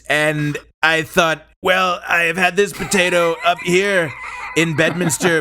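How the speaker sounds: rambling presidential impression with stretched phrases; President Trump. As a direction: stretch out key words, then pause. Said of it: "President Trump, your rebuttal?".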